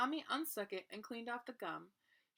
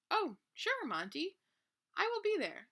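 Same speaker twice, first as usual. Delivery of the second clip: high, loud eager reply; happy acceptance; 9 semitones higher, 5 dB louder than usual. Acted. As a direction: answer thrilled to be invited. Grover happily accepts invitation.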